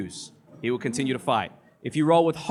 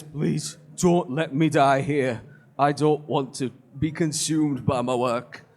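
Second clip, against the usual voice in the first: crying plea; slower than usual. Acted. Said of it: "starts to cry".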